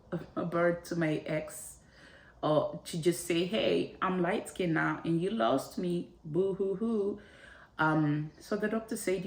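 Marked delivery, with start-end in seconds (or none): 3.4-7.2 teasing singsong boo hoo; flipping off her ex with a mock-sad boo hoo, teasing; mock taunting. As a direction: rub it in playfully, a bit higher. Taunting the ex in imagination.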